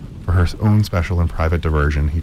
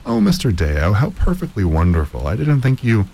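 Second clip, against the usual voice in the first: ecstatic; 4 semitones higher than usual. Acted. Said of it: "clapped her hands in ecstasy".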